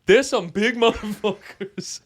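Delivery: slow, high booming brash man; loud drawling guy. Retold or imitated. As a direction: boom it out slowly like a loud stranger. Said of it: "And then looks at his wife".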